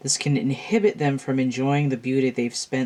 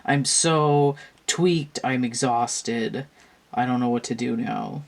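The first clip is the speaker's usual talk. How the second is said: burnt out. Retold or imitated. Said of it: "Firefly is burnt out and feeling dull".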